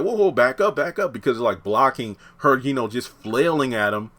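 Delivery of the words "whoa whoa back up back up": high-pitched retold alarm; urgent mock warning, pitched up; Greg. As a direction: imitate someone fending off an attacker. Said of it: "Greg's like".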